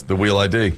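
R said as W, REAL becomes "wheel"; mimicked speech impediment. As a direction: quote her weak R in "wheel". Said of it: "The R's".

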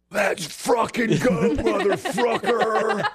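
high, drawn-out mock player yell; yelling to the dugout. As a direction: holler it like a pumped-up ballplayer, stretching the words. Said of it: "he's yelling to the dugout".

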